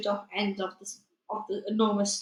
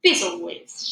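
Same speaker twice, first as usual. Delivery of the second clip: giant shout; 3 semitones lower, 5 dB louder, slower than usual. Acted. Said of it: "shouted the blood butter".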